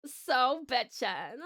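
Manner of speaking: very slow drawl, rising end; Valley Girl voice. Retold or imitated. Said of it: "Valley Girl song".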